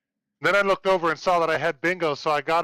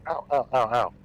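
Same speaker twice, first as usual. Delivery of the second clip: getting a leg cramp; 3 semitones lower than usual. Real, not acted. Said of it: "Oh, getting a leg cramp".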